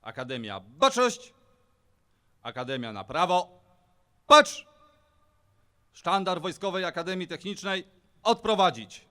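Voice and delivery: clipped parade ground commands; drill sergeant. Real, not acted. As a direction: call orders across the square. Officer gives parade commands.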